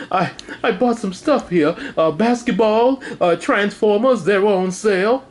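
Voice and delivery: light butler impression; a hint of a proper butler; Jeffrey voice. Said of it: "when Jeffrey brought home the toys".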